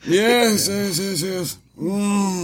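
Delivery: put-on German accent; lightly voiced German accent. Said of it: "This is his German accent".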